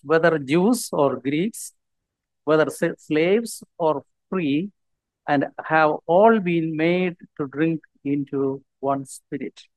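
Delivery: slow, measured Bible reading; scripture reading. Acted. Preacher reads First Corinthians to the congregation, slow scripture reading. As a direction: read the verse out deliberately, word by word.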